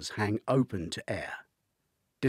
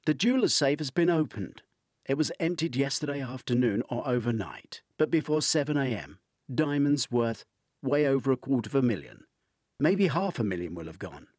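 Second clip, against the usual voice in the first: higher, urgent woman on the phone; client woman voice; 3 semitones higher than usual. Acted. Woman on the phone telling Dwight of the stolen diamonds, higher urgent voice. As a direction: lift the pitch for the worried client.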